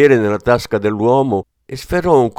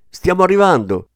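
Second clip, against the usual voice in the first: mild joyful yell, raised pitch; happy shout; 9 semitones higher, 4 dB louder than usual. A narrator's reading. Elenia announces they are coming, happy higher-pitched call. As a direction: call out happily, high-pitched. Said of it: "gridava felice".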